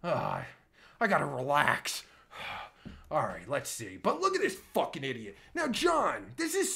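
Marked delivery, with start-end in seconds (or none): 2.3-3.1 voiceless sigh to settle down; exasperated sigh. Real, not acted. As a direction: let out a soft, exasperated breath. Trying to relax after ranting.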